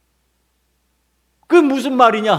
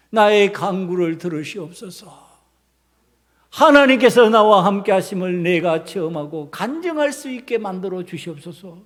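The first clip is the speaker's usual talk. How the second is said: lower, measured petition; earnest model prayer; 4 semitones lower than usual. Shown as a demonstration. Preacher modelling trust before God, humble prayer. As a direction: pray humbly, easing down at the close. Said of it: "이렇게 돼야죠".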